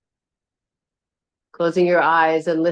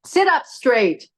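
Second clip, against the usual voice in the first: high, drawn-out tart command; 6 semitones higher, 3 dB louder, slower than usual. Shown as a demonstration. Yoga teacher demonstrating a bad tone to her class, tart command. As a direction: order it tartly, falling at the end. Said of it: "about a tart tone".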